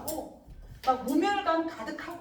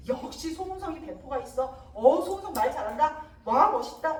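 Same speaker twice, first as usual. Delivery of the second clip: acted crowd admiration, building louder; admiring praise; 4 dB louder than usual. Servants and courtesans praising So Unseong, admiring exclamations. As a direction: gush like impressed onlookers. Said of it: "이러면서 칭찬하는 거야".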